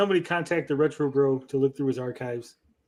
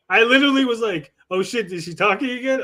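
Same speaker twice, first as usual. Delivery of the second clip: laughing; 6 semitones higher than usual. Real, not acted. Retelling surprise, laughing.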